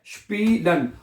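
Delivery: स्पीलन said with a clear "shp" onset, shpee-len; German pronunciation demo. Shown as a demonstration. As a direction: model the word स्पीलन slowly as "shpeelen". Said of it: "ठीक है".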